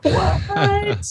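high-pitched drawn-out "What?"; retold disbelief. Reacting to a kid's remark about rugby, retold disbelief.

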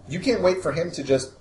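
lightly voiced corporate salesman; slick, eager sales pitch voice; smarmy spokesman. GM voicing Mister Smiley's pitch.

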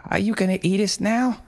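high, tearful mother voice; pleading mother. A narrator's reading. Mother pleading with possessed son, high and tearful. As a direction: beg him gently, near tears. Mother fearfully asks panda.

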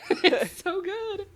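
slow, high, laughing through it. Real, not acted. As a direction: giggle the words out. Laughing over peanut butter tortilla.

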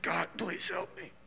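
soft, hushed plea to God; imitating desperate prayer. Preacher imitating George praying at the bar, soft and hushed. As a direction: breathe it as a broken prayer. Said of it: "And he's like".

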